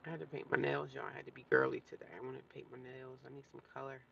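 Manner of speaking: talking with a mouthful; chewing while talking. Real, not acted. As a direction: chew while you speak. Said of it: "I'm no sorry if I'm chewing like a cow".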